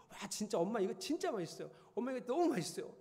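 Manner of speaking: high, eager, speeding up at the end; children raving about mom's cooking; kids' gushing praise. Retold or imitated. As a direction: imitate the kids raving about the food.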